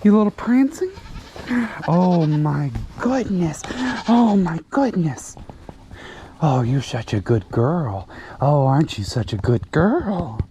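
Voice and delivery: fond singsong pet talk; talking to a goat. Real, not acted. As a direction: coo at the prancing goat. Cooing to goats.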